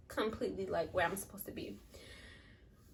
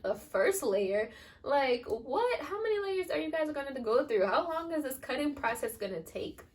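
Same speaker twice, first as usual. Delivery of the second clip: incredulous; 4 semitones higher than usual. Retold or imitated. Shocked by doctor's reply.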